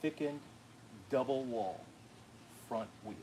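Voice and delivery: teasing copy of the review read; mock presenter voice. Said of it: "so now who works for who now?".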